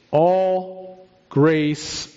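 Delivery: slow, drawn-out "all grace", weight on grace; stress on grace. Real, not acted. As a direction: set "grace" apart and lean on it. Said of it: "I emphasize the word grace".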